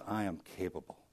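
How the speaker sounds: "I am capable" whispered-soft and tender; God's gentle voice. Pretend. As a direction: hush it as God's quiet promise. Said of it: "he says".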